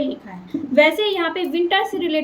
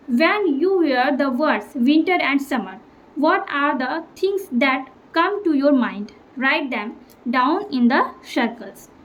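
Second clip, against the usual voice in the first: slow textbook reading; much slower than usual. Acted. Teacher reading the exercise aloud to the class, slowly. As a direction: read the English question slowly and clearly.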